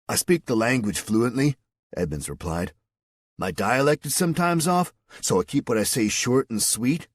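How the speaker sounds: relaxed So-Cal dude explaining; a hint of surfer ease; surfer soldier. Edmonds voiced by narrator.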